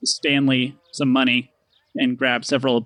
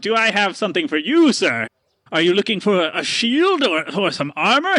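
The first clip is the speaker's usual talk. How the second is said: salesman pitch. Acted. Stanley pitching armor to Paxton. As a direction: flatter and sell. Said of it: "he points over to Paxton and he goes".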